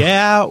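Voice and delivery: YEAH pitched high. Shown as a demonstration. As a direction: lift the voice right up on "yeah". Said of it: "raising the tone of your voice".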